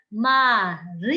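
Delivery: Marina, loud, with RI leaned on; stress on RI. Shown as a demonstration. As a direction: lean on the RI in Marina. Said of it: "A próxima palavra".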